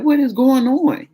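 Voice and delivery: slow surprised demand; alarmed question. Retold or imitated. Hearing about the stranded trip.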